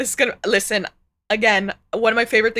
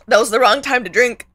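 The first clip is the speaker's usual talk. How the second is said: disgusted groan; 6 dB louder than usual. Real, not acted. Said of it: "I have the bad chills".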